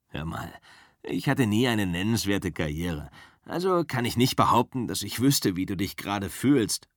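lightly voiced easygoing driver; Cliff's calm voice. Cliff puts things in perspective, lightly voiced and easygoing. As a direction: talk your boss down gently.

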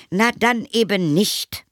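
high, loud huffy retort; offended. A narrator's reading. Mother snubbed by vampire, offended. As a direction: snap back in a huff. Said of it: "sagte die Mutter beleidigt".

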